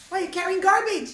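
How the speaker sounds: can't believe what he hears; incredulous. Acted. Yehuda incredulous.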